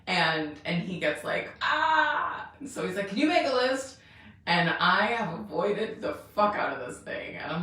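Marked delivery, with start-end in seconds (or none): 1.6-2.5 higher, louder mock cry of overwhelm; a hammed-up exasperated "Ah!". Husband swamped by her wish list, mock overwhelmed cry. 3.1-4.0 higher, louder mock plea from the husband; exasperated husband. Husband begging her for a list, higher mock exasperation.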